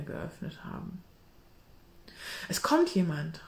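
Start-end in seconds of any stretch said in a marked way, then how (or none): 2.5-3.4 urgent, scared whisper; terrified hushed warning; frightened whisper. Acted. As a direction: hiss it in fear of being heard. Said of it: "rief George in großer Angst".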